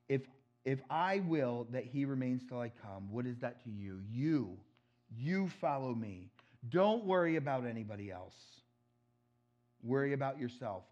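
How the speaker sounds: fuller, forceful declaration; passionate proclamation. Acted. Pastor voicing Jesus's bold words to Peter, passionate. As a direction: proclaim it with conviction. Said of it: "He gives the passionate pro-, proclamation".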